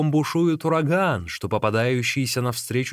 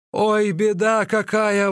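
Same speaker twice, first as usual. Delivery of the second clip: high, slow wail; exclaiming in dismay; 9 semitones higher, 4 dB louder, slower than usual. A narrator's reading. Runner learns meat is forbidden, exclaiming in dismay. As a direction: lament it, drawing the words out. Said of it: "воскликнул Ликуй".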